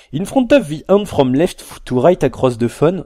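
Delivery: slow English read in a thick, hammed-up French accent; mock French accent. French vlogger reading the phone's clumsy English menu, thick mock French accent. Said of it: "je fais exprès de prendre un accent comme ça".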